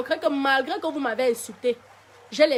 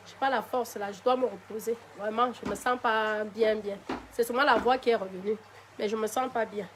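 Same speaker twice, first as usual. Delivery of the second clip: worn-out and softer, like someone who needs rest; tired, low voice; 3 semitones lower, 6 dB quieter than usual. Real, not acted. Streamer telling fans she is too tired to dance, tired and soft. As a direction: let fatigue pull the voice down and quiet. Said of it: "je me sens un peu fatiguée".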